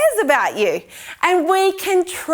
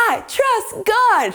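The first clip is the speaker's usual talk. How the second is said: higher call, no real volume; half-hearted yell, pitched up; mock yell; 5 semitones higher than usual. Shown as a demonstration. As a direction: call it out for children to copy. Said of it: "Yell it out".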